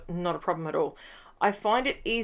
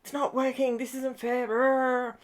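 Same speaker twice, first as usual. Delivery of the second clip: higher, whiny mock complaint; mock whine; 5 semitones higher than usual. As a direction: play the sulky pen user, childish. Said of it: "and then you go".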